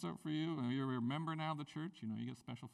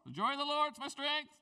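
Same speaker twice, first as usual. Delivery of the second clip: higher, louder excited whoop; mock excitement; 9 semitones higher, 6 dB louder than usual. Pastor imitating a churchgoer grabbing a verse, excited whoop. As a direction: hype it up like a new believer. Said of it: "right there we go".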